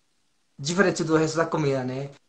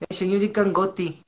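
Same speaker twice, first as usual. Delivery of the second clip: Bahian lilt, a bit higher, hard t in "cangote"; imitated Bahian accent; 3 semitones higher than usual. Visitor imitating the talk heard in Bahia, Bahian accent. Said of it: "tiram totalmente daquele, daquele ti".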